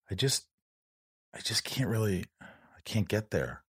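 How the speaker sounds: breathy, half-whispered confession; barely getting the words out, overwhelmed; strained whisper. Retold or imitated. Guest retelling telling his therapist he can't get there, whispered.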